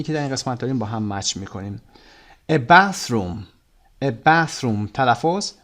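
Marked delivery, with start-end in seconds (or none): 2.5-4.9 "bathroom" with "bath" hit firmly and "room" light; stress on bath. Shown as a demonstration. Teacher drills the class, "bathroom" stressed on "bath". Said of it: "استرس روی bath".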